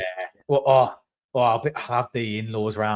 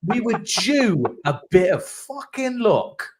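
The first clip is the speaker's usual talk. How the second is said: retold comeback; 10 semitones higher, slower than usual. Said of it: "I was like".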